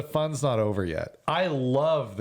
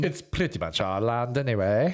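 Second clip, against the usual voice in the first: mock British. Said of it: "British were quite the dicks".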